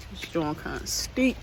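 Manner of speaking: breathing hard from the climb; winded, talking while climbing. Real, not acted. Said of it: "That hill got me a little out of breath".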